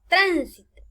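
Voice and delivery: tránsito as TRÁN-si-to; stress on first syllable. Shown as a demonstration. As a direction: hit TRÁN and let the rest fall. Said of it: "en las esdrújulas agregarán la palabra".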